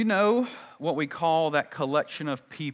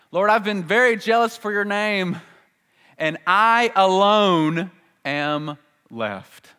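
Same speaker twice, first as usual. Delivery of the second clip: high, slow plaintive lament; milk the pity party; hammed-up self-pity, high and dragging; self-pitying whine; 8 semitones higher, 7 dB louder than usual. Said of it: "he has a pity party".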